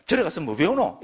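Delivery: mildly mocking friend's jibe; sneering. Friend taunting a Buddhist about temple learning, sneering. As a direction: needle them with scornful questions. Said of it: "좀 비아냥대면서".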